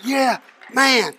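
put-on high, loud cheer of a thrilled boy; excited, punched-up celebration; exultant. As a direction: crow over the win. Boy exults after winning.

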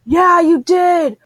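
slow, high mock disgust; disgusted husband. Husband grossed out by the wet bed, slow disgusted drawl. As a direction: drag it out, grossed out. Husband confirming water broke.

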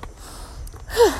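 high unvoiced breathy exhale; breathless sigh. Real, not acted. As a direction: blow out a tired breath. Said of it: "out of breath walking up hills".

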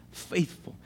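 faithful breathed out unvoiced, almost a whisper; hushed echo. Shown as a demonstration. Preacher echoing faithful to the congregation in a near whisper. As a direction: let faithful fall away to a breath. Preacher repeats the word softly.

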